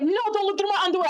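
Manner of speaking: mock panicked 'hands off'; acted urgent protest. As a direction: cut him off in a hurry. Jumping up to stop him.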